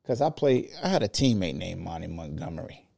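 muffled mic, bass only; talking into a covered mic. Real, not acted. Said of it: "throw all on the microphone so you sound muffled".

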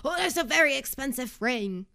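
mock-scary possessive fiancé voice; lightly put-on fussy impression; James. Host imitates a fiancé upset over an expensive ring, mock scary. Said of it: "That was a little scary".

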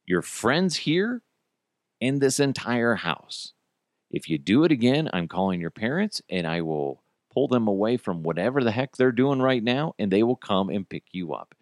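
measured stern scolding, never yelling; firm, not happy. Retold or imitated. Dad threatening to call a kid's parents, firm and displeased. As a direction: make each warning land with controlled displeasure. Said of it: "that's the tone that I had in my voice".

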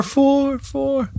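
high voice fading into echo; own echo. Acted. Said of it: "I'm giving my own echo there".

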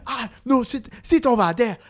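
high, put-on African accent, ordering. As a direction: insist in a mock African accent. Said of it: "happen to be African".

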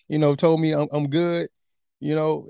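gleeful thought after the coach praised him; smiling and pleased. Retold or imitated. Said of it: "feeling pretty good, you know, smiling a little bit".

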